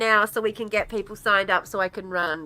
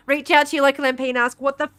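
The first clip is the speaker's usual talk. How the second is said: higher, louder furious rallying cry; angry call to action; 6 semitones higher, 8 dB louder than usual. Real, not acted. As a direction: shout it at the viewers in outrage. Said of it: "I am so fucking angry".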